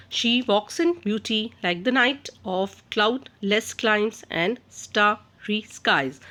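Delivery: reads the verse line slowly and evenly; slow poetry reading for students; slow recital. Shown as a demonstration. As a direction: let each word of the poem sit, unhurried. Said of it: "teacher recites the poem lines".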